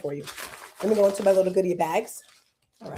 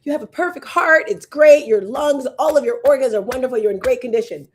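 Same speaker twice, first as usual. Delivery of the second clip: upbeat, loud doctor voice; cheery doctor; 5 dB louder than usual. Retold or imitated. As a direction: deliver good news brightly. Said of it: "he's like".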